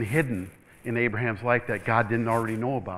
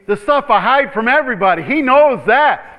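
emphatic preaching; 9 semitones higher, 11 dB louder than usual. Real, not acted. Preaching climax.

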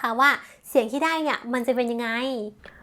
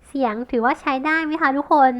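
ordinary talk

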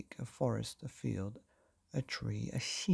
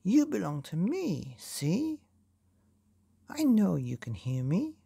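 higher, insistent call; louder still; 6 semitones higher than usual. A narrator's reading. Fausto calling to the silent sea, insistent and mildly louder. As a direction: insist in a raised pitch, only mildly louder. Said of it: "louder still".

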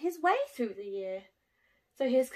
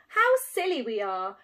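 proclaiming; 7 dB louder than usual. Acted. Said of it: "he proclaimed with a jiggle".

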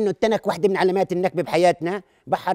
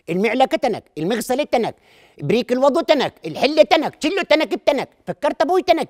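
higher and louder, building up; rising rant; 4 semitones higher, 5 dB louder than usual. Acted. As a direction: pile it on, getting worked up. Building rant about tin.

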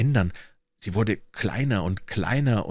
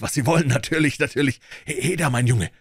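higher, eager call; freudig rufend; 5 semitones higher, faster than usual. A narrator's reading. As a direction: exclaim happily, then hail the boy. Scrooge freudig, ruft den Jungen. (freudig erregt, mit höherer Stimme rufend)

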